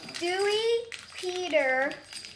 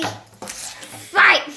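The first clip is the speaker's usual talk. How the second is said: loud announcer call to fight; booming fighting game announcer; 3 semitones higher, 5 dB louder than usual. Pretend. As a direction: shout it like an arcade announcer.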